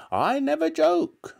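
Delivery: very high, loud, drawn-out granny voice; stern grandmother. A narrator's reading. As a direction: rebuke him as an affronted old woman. Grandmother rebuking George.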